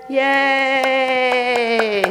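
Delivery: loud, high mock yay; teacher cheering women's right to vote, loud. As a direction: celebrate it like a cheering crowd. Cheering the nineteenth Amendment.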